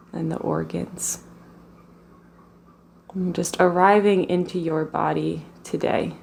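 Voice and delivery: calm, even meditation voice with long pauses; guided meditation. Real, not acted. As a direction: guide them gently into the body, leaving space between phrases.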